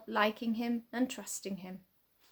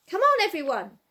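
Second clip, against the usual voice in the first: rallying call; 6 semitones higher, 8 dB louder than usual. A narrator's reading. Boy rallying friends to help.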